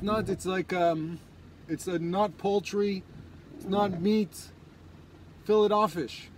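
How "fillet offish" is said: "fillet offish" said as fill-it off-fish; "fillet offish" with a hard T and "offish". Acted. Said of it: "the filet o fish?".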